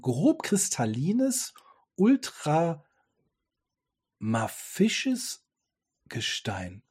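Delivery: "ultramafisches" dragged out very slowly, rising; sounding out "ultramafisches Gestein" syllable by syllable; slow stumbling read. Real, not acted. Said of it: "das sind Wörter, die muss ich erstmal googeln".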